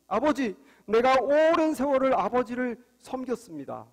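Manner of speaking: a touch of indignant protest; angry older son. Acted. Older son reminding father of long service, mildly angry. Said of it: "화난 이유가 들어있습니다".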